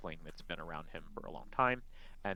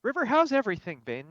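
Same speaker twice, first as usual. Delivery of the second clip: higher put-on voice, slowed, forced politeness; covering bad tea; 11 semitones higher, 8 dB louder than usual. Glamdry pretending River's stale tea tastes good. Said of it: "I lost my breath just trying to run over here".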